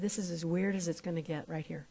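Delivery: chuckling. Real, not acted. Reassuring her with a laugh.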